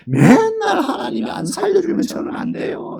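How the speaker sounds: high crying plea, near a shout; desperate cry. Retold or imitated. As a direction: cry out like someone drowning in crises. Desperate believer voiced in sermon. (울부짖듯 높은 목소리로 외치며)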